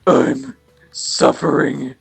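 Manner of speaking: loud, dragged-out nerdy whine; desperate nerd voice. Acted. Boy confessing to his persona, loud desperate nerd voice. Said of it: "Like a really desperate Coomer voice".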